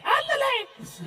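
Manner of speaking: high ándale in a hammed-up Mexican accent, falling away at normal volume; mock Mexican accent. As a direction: let ándale trail off in an overdone Mexican accent. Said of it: "They're like".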